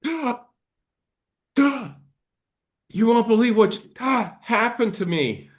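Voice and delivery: high-pitched startled blurting, broken by gasps; hammed-up, gasping high-strung voice; acted panicky overreaction. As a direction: play someone who keeps jolting with fright. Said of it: "have you ever seen people going".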